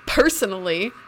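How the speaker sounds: measured mock-formal imitation with pauses; Elijah. Friend mimicking a character from the show, mock-formal and halting. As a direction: set each phrase apart, lightly put-on. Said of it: "unless you are mimicking Elijah".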